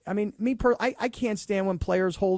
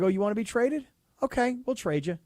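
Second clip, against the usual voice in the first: spiteful; 5 semitones higher than usual. Pretend. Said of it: "I'm a spiteful kind of guy".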